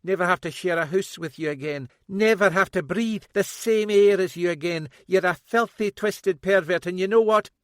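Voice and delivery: loud high bitter accusation; bitter daughter. A narrator's reading. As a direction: spit the accusations at him.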